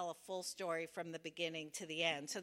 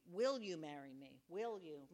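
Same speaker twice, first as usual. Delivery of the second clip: brighter, hopeful proposal; more optimistic; 4 semitones lower than usual. Shown as a demonstration. Rehearsing the text message, hopeful. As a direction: ask it like you expect a yes. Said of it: "More optimistic".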